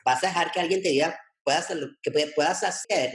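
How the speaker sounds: retold sergeant-major husband. Husband challenging his doubting partner in Spanish, imitated sergeant major. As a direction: imitate a husband firing back in rapid Spanish. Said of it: "he's a retired sergeant major".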